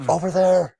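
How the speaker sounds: high breathy killer voice; lightly voiced masked killer; Ghostface voice. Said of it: "I can still do that voice".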